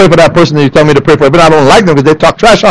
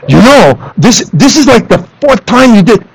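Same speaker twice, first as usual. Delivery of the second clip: higher-pitched, halting nagging; irritated chatter; 4 semitones higher than usual. Retold or imitated. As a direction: imitate yourself scolding your kid in irritation. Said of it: "my voice gets irritating, chatter".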